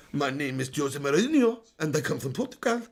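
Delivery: hammed-up Portuguese accent. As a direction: insist it is Portuguese. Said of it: "It is clearly a Portuguese accent".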